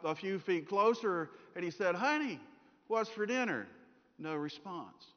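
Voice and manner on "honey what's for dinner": higher-pitched call, pause after Honey; husband calling to wife. Acted. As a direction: call out a casual question to your wife. Husband asks again, closer.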